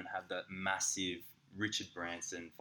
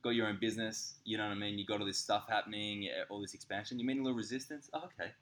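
high, loud sarcastic mimicry of the partner; mock her pitying you, hammed-up and high; 4 semitones higher, 6 dB louder than usual. Partner mocking his whinging in a loud, high sarcastic voice. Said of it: "And she was like".

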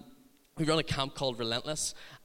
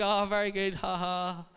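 higher-pitched polite approval with token laugh; humouring him; 5 semitones higher than usual. Retold or imitated. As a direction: humour the boy with a put-on "ha ha". Humouring the shouting boy.

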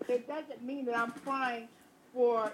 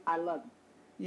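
slow, stretched I love you imitating the son; the son's big, slow I love you; drawn-out I love you; 5 semitones lower, slower than usual. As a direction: draw out "I love you" fondly like the boy does.

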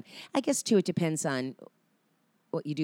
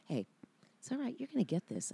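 higher, gentle soothing of a nervous actor; soft-spoken comfort, pitched up; calming reassurance; 5 semitones higher, 5 dB quieter, faster than usual. Retold or imitated. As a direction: reassure her like a kind co-star. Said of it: "he just calmed me".

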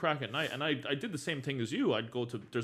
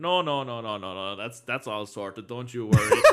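drunk friend's slowing reassurance, lightly imitated; hammered friend; 6 dB louder than usual. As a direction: wave it away like a tipsy mate. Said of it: "He was absolutely hammered".

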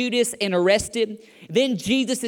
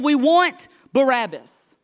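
slow, louder cry of a crowd; crowd demand; 3 semitones higher, 5 dB louder, slower than usual. Retold or imitated. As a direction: call it out deliberately as the crowd. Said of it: "The crowd begins to get louder".

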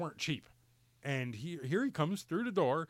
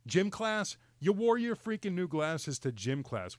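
incredulous echo, pitched up on the first words; retold losing it; 3 semitones higher than usual. Dad retells hearing about gym class, losing it. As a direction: throw it back at the kid in mock outrage. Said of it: "I, I freaking lost it".

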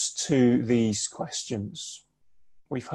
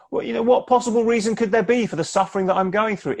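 higher and fast, urgent questioning; pleading why-question; Job's lament; 8 semitones higher, faster than usual. Acted. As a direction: press the question as a suffering man. Preacher voices Job questioning God.

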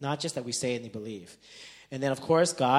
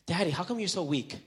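mild mock yell, higher pitched; half-strength retold yell, pitched up; retold child's yelling; 5 semitones higher than usual. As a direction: imitate a son needling dad. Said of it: "like, yelling at me".

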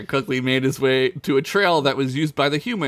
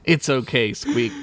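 reassuring; 2 semitones lower, slower than usual. Acted. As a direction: comfort her gently. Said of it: "reassured her".

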